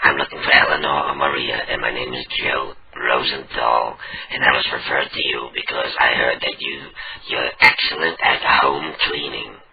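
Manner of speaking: put-on tracheotomy-style voice. Prank caller on the phone asking for eleanor or maria, fake tracheotomy voice. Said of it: "I want to apologize about my voice because I had a tracheotomy".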